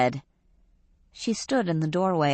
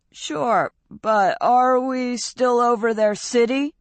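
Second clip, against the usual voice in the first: lightly voiced young man, higher; a hint of a nervous boy asking; Fausto's voice; 7 semitones higher than usual. A narrator's reading.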